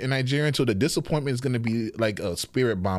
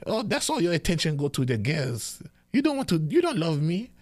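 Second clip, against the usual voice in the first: high whiny mother's complaint, building higher; guilt-tripping mom; 12 semitones higher than usual. Retold or imitated. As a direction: pile on the guilt, pitch climbing. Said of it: "just when she say".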